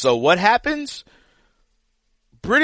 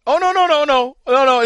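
emphatic protest; 6 semitones higher, 5 dB louder than usual. Real, not acted. Protesting the co-host's dismissal.

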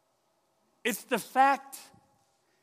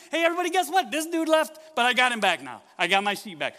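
whooping with joy, much higher and louder; overjoyed shepherd; 7 semitones higher, 6 dB louder than usual. Acted. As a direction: call the neighbours over in delight. Shepherd overjoyed calling neighbors.

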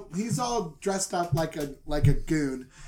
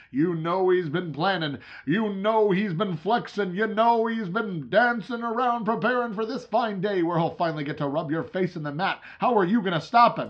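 hype; 3 semitones higher, 4 dB louder than usual. Acted. Hyping up the rival fighter.

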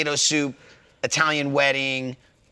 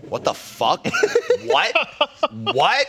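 mock outrage; 11 semitones higher, slower than usual. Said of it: "And he was like".

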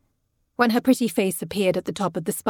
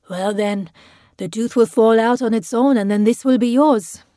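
put-on louder, slightly lifted voice to a child; tipsy uncle's big, generous offer; hearty bargaining; 3 semitones higher, 6 dB louder than usual. A narrator's reading. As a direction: promise the boy a reward.

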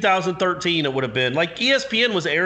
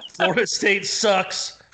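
slow, measured verse; lightly hammed-up rhyme; mock poem recital; 2 semitones higher, slower than usual. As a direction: recite a joke poem slowly. Improvised poem recited for the hosts.

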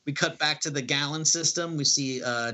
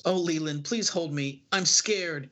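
higher, mock-frightened pleading; frightened plea; 5 semitones higher than usual. Empress clinging to Leland after an attack, mock-frightened and pleading. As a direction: beg him to hold you, playing scared.

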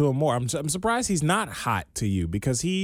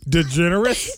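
loud, high disbelieving shout; surprised shout; 5 semitones higher, 6 dB louder, much slower than usual. Real, not acted. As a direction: blurt the name out.

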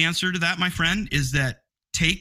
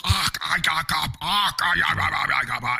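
mock Russian gibberish; slower than usual. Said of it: "they would just go".

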